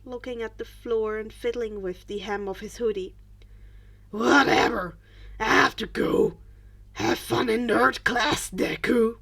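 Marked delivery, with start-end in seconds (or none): 4.1-9.2 insulting brush-off. A narrator's reading. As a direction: toss the insult off with contempt. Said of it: "It was an insult".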